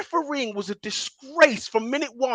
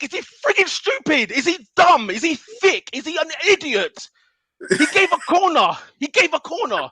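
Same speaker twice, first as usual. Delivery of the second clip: angry rant; 5 semitones higher than usual. Real, not acted. Ranting at the referee's decision.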